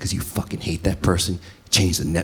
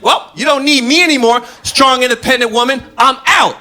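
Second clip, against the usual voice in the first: much higher and louder sneer; mocking sarcasm; 10 dB louder than usual. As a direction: hand it over with a sneer. Sarcastic walkout line.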